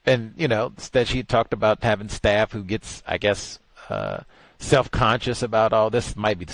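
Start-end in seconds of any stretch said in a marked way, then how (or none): none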